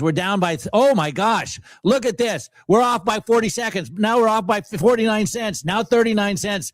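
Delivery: rising, tense play-by-play of the falling price; excited live call. Real, not acted. Trader calling the closing seconds, tense and excited. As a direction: call it like a race going the wrong way.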